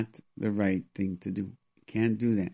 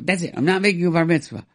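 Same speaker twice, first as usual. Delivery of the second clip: retold angry threat; 6 semitones higher, 6 dB louder, faster than usual. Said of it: "a person said".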